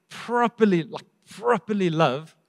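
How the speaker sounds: properly said twice, the second slow and leaned on; emphasis on properly. Shown as a demonstration. Preacher pressing the congregation, slow stress on properly. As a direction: dwell on properly slowly. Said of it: "repeats properly for emphasis".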